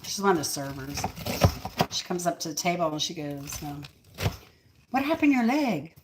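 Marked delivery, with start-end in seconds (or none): 4.9-5.9 high-pitched mock Asian-accented English; imitated Asian accent. Server asking about her broken leg, imitated Asian accent. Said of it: "She had the ac-, an accent".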